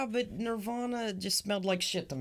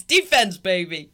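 hyped; 8 dB louder than usual. Real, not acted. Hyping the fart defense.

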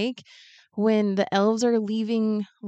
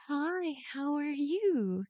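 nervous polite greeting; 8 semitones higher, 6 dB quieter, much slower than usual. Retold or imitated. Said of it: "she's like".

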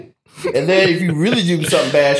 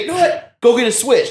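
angry mama; 7 semitones higher than usual. Retold or imitated. Angry mama voiced in story.

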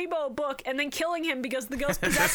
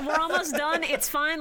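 cracking up mid-line; 5 semitones higher, 3 dB louder than usual. Real, not acted. Laughing through line.

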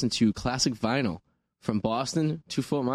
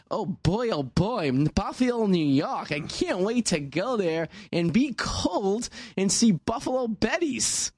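high, slow, hammed-up old lady; old lady voice, drawn out and sing-song; horrible old woman accent; 7 semitones higher, much slower than usual. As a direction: gush like a corny old woman. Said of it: "That was a horrible old woman accent".

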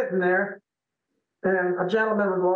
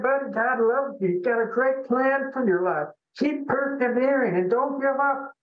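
higher-pitched heartfelt urging; earnest encouragement; 5 semitones higher than usual. Retold or imitated. Man urging a depressed stranger at the bar to persevere, encouraging. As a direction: lift someone up with a raised, earnest voice.

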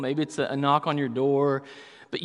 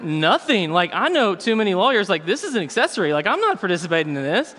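rattled refusal; 4 semitones higher, 4 dB louder than usual. Retold or imitated. Refusing to get involved.

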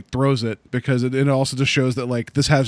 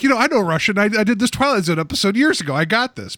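mock cocky Bronson; 6 semitones higher, faster than usual. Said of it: "You think he'd be like".

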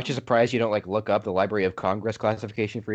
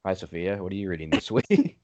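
flat, lower podcast greeting; monotone voice; 3 semitones lower than usual. Shown as a demonstration. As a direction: drone it out like a bored host. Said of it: "then I listen back to it and it's like".

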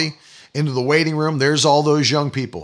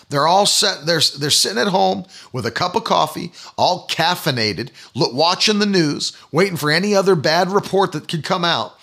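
normal talking voice

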